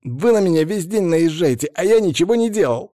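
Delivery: sudden defensive outburst, pitch climbing high; snapping back. A narrator's reading. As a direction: snap back like a cornered suspect. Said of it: "вдруг огрызнулся".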